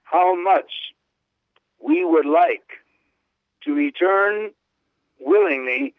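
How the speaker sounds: lifted, fervent reading with slow stretches; exclamatory reading. Acted. Host reads the Pope's longing for Nazareth, fervently. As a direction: read the Pope's exclamation with feeling.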